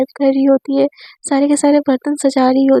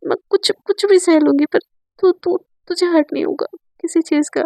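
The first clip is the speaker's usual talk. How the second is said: higher, stammering, near-tearful begging; emotional plea; 3 semitones higher than usual. Retold or imitated. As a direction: beg her not to go, voice catching. Emotional plea not to leave. (ऊँची, अटकती, रुआंसी गुहार)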